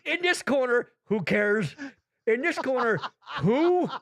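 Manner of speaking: hammed-up boxing emcee; mock ring announcer. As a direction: announce the nobodies like boxers. Mock boxing introduction of nobodies.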